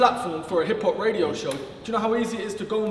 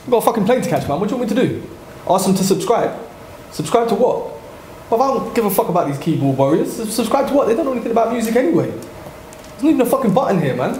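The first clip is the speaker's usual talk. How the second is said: irritated Westwood. Pretend. Acting out Westwood leaving annoyed.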